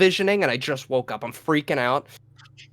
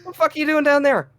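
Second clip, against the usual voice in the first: high, quick baffled question; acted confusion; 10 semitones higher, 4 dB louder, faster than usual. Finding girlfriend under bed, acted high-pitched confusion. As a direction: imitate rage collapsing into bewilderment. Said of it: "rage to confusion".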